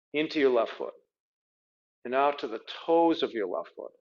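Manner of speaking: calm body-scan guidance with long pauses; guided meditation. Real, not acted. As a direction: guide them gently inward, leaving space between phrases.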